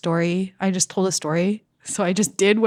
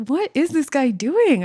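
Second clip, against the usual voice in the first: high, loud, disbelieving rant; indignant outburst; 10 semitones higher, 5 dB louder than usual. Retold or imitated. Comic venting about the drunk host, loud and indignant. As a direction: blurt it out in outrage.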